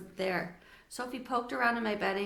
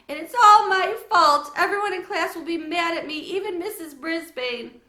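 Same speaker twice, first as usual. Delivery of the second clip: tearful; 8 semitones higher, 10 dB louder than usual. Acted. Sophie crying blames herself.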